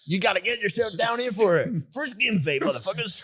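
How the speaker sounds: hamming up a country barber's pitch; redneck barber. Pretend. Co-host playing a redneck barber, mock hillbilly voice. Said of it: "Redneck barbershop".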